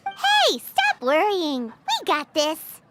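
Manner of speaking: slow, steady reassurance after a bright call; calm her nerves, take your time; slow encouraging words to a nervous friend; reassuring. Acted.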